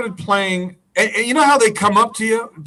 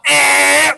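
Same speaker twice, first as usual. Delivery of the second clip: organ drone imitation; 7 semitones higher, 5 dB louder than usual. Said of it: "Organ is still".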